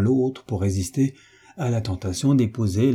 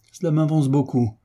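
groaning complaint; 5 semitones higher than usual. Acted. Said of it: "dit le baron en gémissant".

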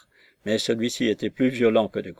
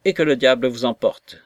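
angry outburst; 4 dB louder than usual. Acted. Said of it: "s'écria monsieur Weston".

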